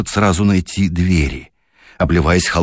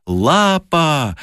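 frantic cry; 7 semitones higher than usual. A narrator's reading. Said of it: "кричала она безумно".

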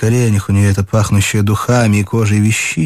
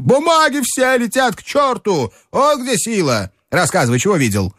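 agitated exclamation; 10 semitones higher than usual. Acted. Strukov agitated in café.

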